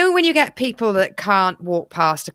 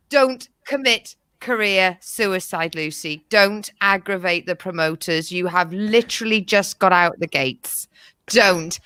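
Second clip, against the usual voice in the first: stern self-warning; 4 semitones lower than usual. Acted. Sternly warning herself not to comment.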